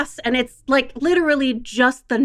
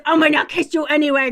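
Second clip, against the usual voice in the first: higher, growly smothering-kisses voice; teasing grandparent going in for kisses; playfully pushy grandparent; 4 semitones higher than usual. Acted. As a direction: pounce playfully on a toddler. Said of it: "what they often do is".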